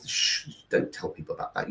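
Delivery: a quick mock whisper, as if it were a secret; mock hush. Hushing British shame about kindness.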